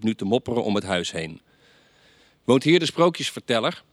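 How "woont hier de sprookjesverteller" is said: louder and higher, called in through the window; calling through the window. Acted. Death calls through the window to the storyteller, loud and high. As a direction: Death hollers his question from outside. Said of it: "riep hij door het raam".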